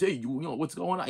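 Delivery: put-on lightly done Italian punk accent. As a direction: toss off a quick hint of an Italian tough guy. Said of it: "he's got that strong Italian voice".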